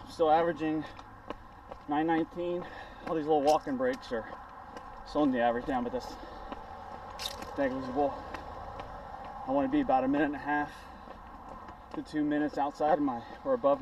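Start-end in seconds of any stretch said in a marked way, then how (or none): none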